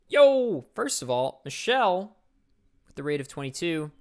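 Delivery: mock streamer shoutout from the cult leader. Cult leader thanks the raid like a streamer, playful.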